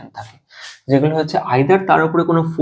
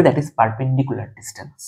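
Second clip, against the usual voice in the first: deliberate, very slow term; slow dictation; 4 dB quieter, much slower than usual. Shown as a demonstration. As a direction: say the term very slowly. Teacher gives English term.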